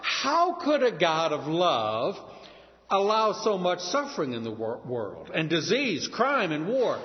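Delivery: arms-folded, defiant questioning; a touch of a defiant skeptic; rebellious challenge. Retold or imitated. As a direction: demand an answer, goading. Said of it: "rebelliously and say".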